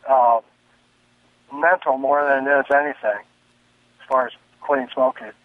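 caller on speakerphone; distant speakerphone sound; phone speaker. Real, not acted. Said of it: "I have you on speakerphone".

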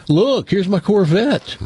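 high, drawn-out show-off announcement; mock bragging. Mocking social media show-off posts.

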